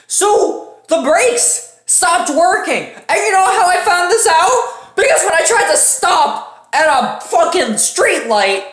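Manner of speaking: laughing as brakes fail; laughing disbelief. Real, not acted. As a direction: laugh through the disaster.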